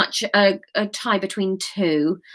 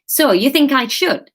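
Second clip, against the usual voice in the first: put-on higher question in a Wigan accent; Graham's Wigan accent; 6 semitones higher, 4 dB louder than usual. Reader mistakes Kate's line for Graham's, Wigan accent. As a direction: ask it in a light Wigan accent. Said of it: "no, that was Kate's line".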